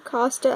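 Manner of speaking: "Costa" as KAH-stuh; short-o pronunciation. Shown as a demonstration. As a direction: say "Costa" with an open ah. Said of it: "I don't know how to say any of these".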